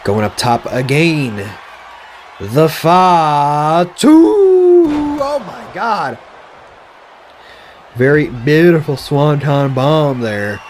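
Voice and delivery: lively play-by-play announcing; wrestling commentator. Acted. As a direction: call the match like a ringside commentator. Play-by-play of game match.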